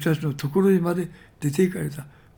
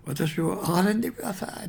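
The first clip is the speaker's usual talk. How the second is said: mock cry out; 4 semitones higher than usual. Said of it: "叫んだんですね".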